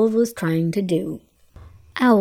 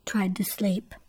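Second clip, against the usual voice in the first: soft whispered words; a storyteller whispering; 8 dB quieter than usual. A narrator's reading. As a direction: hush it for the sleeping owl. Owl trying to sleep.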